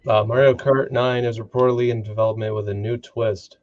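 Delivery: rushed, hurried read-through; fast reading. Real, not acted. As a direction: rush through the article. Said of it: "don't try to read fast".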